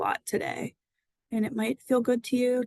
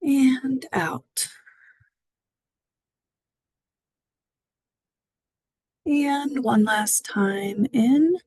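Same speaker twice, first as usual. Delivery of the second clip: whispered breath cue; 3 semitones higher, 3 dB louder, slower than usual. Acted. Breathing cues during breath practice.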